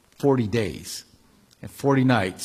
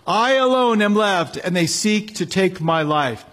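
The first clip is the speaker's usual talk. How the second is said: forceful scripture reading; 3 semitones higher than usual. Acted. Preacher reading the mountain scene, proclaiming. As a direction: proclaim the wind, quake and fire.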